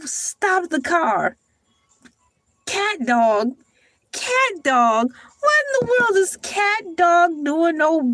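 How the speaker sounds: high, slow, disbelieving rant about a cartoon on the wrong channel; incredulous outburst. Viewer hears her baffled outrage at Cat Dog on BET, high and slow. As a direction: act out your shock. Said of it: "I'm like".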